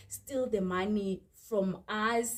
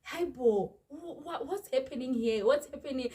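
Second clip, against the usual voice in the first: exasperated; 4 semitones higher than usual. Retold or imitated. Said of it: "And I was like".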